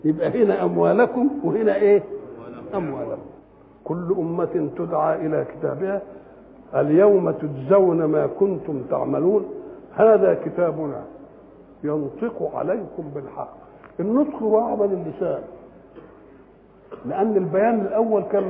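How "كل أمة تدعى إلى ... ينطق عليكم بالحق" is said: measured verse recitation, slowing in places; scripture recitation. Acted. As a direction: recite the verse deliberately, phrase by phrase. (تلاوة متأنية للآيات)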